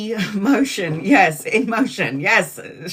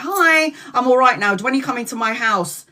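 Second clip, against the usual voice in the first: breezy call back after the fight; cheery mock hello; 3 semitones higher than usual. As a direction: chirp it brightly as if nothing happened. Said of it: "And I was like".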